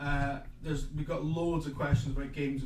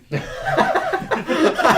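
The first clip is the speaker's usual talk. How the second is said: loud laugh; 14 dB louder than usual. Real, not acted. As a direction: burst of high laughter. Laughing at his own lip-sync joke.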